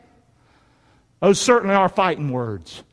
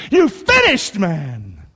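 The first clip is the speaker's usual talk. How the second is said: elated cheering; much slower than usual. Acted. Preacher as dad to child at the finish, elated cheer.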